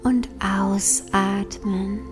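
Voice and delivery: slow whispered exhale cue; soft spa whisper. Acted. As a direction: breathe the words out in a whisper. Breathing cue in meditation.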